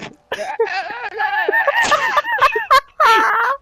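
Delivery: loud high-pitched mock jabber; garbled off-mic yelling. All you hear from a friend off the mic, garbled yelling. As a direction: yelp wordlessly as if far from the mic. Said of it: "that's all you hear".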